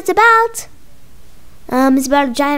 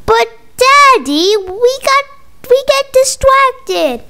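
put-on whiny kid; 8 semitones higher, 3 dB louder than usual. Kids whining to dad.

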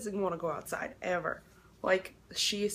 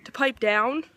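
scolding parents; 3 semitones higher, 6 dB louder than usual. Retold or imitated. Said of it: "I'm just like".

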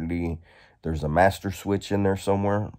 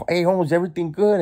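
calling out; 11 semitones higher, 4 dB louder, faster than usual. Retold or imitated. Homie calling down the tier.

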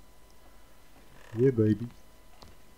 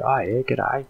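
Aussie greeting; 3 semitones higher, slower than usual. Retold or imitated. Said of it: "full-on Aussies, like".

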